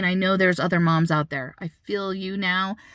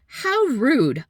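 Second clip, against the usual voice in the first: raised-pitch retold rebuke; scold, replaying your outrage; indignant scolding; 4 semitones higher, 3 dB louder than usual. Mother rebuking a stranger who laughed, indignant scolding.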